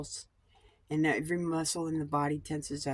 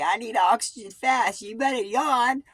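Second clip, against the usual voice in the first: the body talking; 8 semitones higher, 7 dB louder than usual. Retold or imitated. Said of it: "Your body will say".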